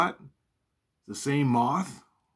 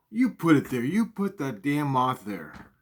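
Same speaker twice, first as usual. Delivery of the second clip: accusing; 3 semitones higher than usual. Retold or imitated. Accusing mom.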